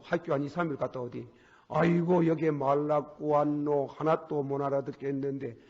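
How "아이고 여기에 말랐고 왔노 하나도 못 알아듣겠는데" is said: lightly voiced whining son; mock-complain about not understanding. Son back from America griping about English, lightly voiced. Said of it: "그래가지고 저거 봐".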